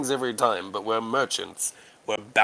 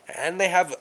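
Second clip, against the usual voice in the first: hissing voice; 4 semitones higher than usual. Acted. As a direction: hiss the words like a snake. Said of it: "responds in the hissing".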